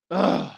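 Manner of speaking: short breathy ugh; disgusted groan. Real, not acted. Host remembering a lost bet, disgusted groan. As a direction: groan over lost money.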